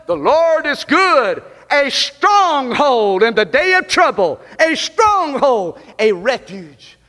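measured, drawn-out reading of the verse; solemn slow recitation; slow scripture reading. Acted. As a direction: lean into each phrase like holy writ. Reads scripture verse aloud.

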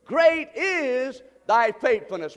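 slow and weighty, each word leaned on; slow unison reading. Shown as a demonstration. Pastor leads the congregation in saying it, slow and weighty. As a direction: lead the church in saying it slowly. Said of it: "One more time".

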